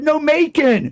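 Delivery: very high, loud mimicked impediment; waitress's speech impediment. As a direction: blurt it out as a high-pitched mock impediment. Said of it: "She had a speech impediment".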